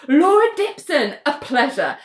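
high, assertive name announcement; Laura Dipson. Retold or imitated. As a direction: lightly imitate an overbearing handshake greeting. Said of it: "she shakes her hand really aggressively".

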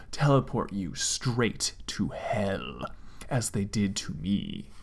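slow ominous whisper. Acted. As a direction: breathe it like a dark secret. Ominous prophecy of doom.

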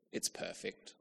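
breathy whispered delight; hushed bliss. Retold or imitated. Diner tasting the perfect dish at last, hushed whisper. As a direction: whisper it like a revelation. Food finally arrives, bliss.

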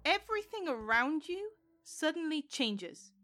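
measured, deliberate storytelling with suspenseful pauses; game master scene-setting. Acted. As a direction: narrate a vision unfolding, lingering on key words.

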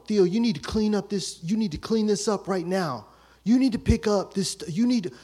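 mock-ordering his little brother around; bossy big brother.

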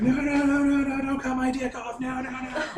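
high-pitched pleading wail; crying and begging. Acted. Game master voicing a collapsed victim, crying and begging. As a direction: beg frantically in a high mock-crying voice. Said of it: "like, crying and begging".

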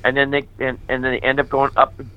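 high, pleading disbelief at the calling; exasperated pleading. Retold or imitated. Telling Jesus he picked the wrong man, in high exasperated pleading. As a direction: argue your way out, voice climbing high.

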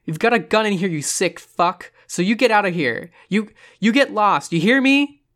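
high, loud threat rising at the end; panicked, furious shouting; near screaming. A narrator's reading. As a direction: yell a frantic warning at the intruder. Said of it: "Dolly's voice, near screaming".

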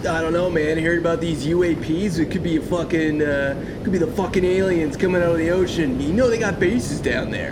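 laid-back surfer bro; stoned beach bro voice; surfer dude. Acted. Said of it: "the surfer voices".

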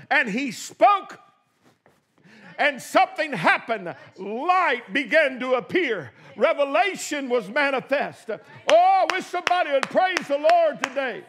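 rising, shouted preaching cadence; preaching at full force. Acted. Preacher stirring the congregation, shouting praise. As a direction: build the fire of the sermon to a cry.

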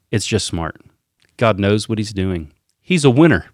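light impression of a boastful politician's cadence; Donald Trump. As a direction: read it in short, punchy salesman phrases, pausing between them. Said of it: "read it with his cadence".

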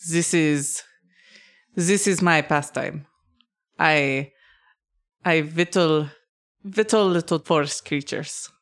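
put-on halting dwarf with a German accent; tentative German-style accent for a craftsman. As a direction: try a German accent, feeling for each phrase. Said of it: "it sounded very German".

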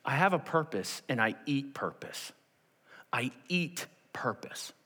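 hushed, weighty resolve; quiet conviction. Acted. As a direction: let the second statement sink softly. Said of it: "It's as if he's saying".

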